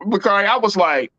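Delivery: usual speaking voice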